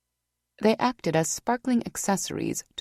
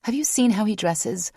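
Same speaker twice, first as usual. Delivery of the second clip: indignant; 4 semitones higher than usual. Acted. Vanessa defending Rock.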